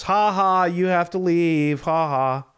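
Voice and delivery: mocking laugh. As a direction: jeer at them while laughing. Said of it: "laughing and pointing at us".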